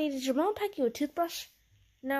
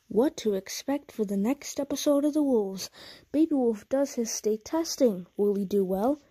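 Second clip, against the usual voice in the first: announcer voice; 4 dB louder than usual. Acted. Trailer and copyright read.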